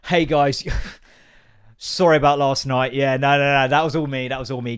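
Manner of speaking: mock-apologise as if the newborn were a polite lodger; baby as polite guest. Newborn apologising to the parents, mild mock sheepish. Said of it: "it's not like she's gonna go".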